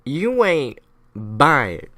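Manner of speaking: slow, drawn-out pointed question; suspicious rebels. Acted. Sons of Liberty questioning neutralists, slow and pointed. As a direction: stretch it out as a mock challenge. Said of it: "going to the neutralists being like".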